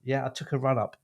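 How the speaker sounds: lively announcer-style podcast intro; theatrical script read. Acted. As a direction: perform the welcome with gusto. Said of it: "a Laurence, uh, Olivier performance".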